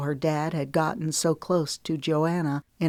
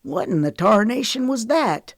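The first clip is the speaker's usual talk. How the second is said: higher and louder, exasperated; frustrated; 5 semitones higher, 4 dB louder than usual. A narrator's reading. Knox reacting to Lemon ending the call, frustrated. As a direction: demand it in frustration. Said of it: "his voice ringing with frustration".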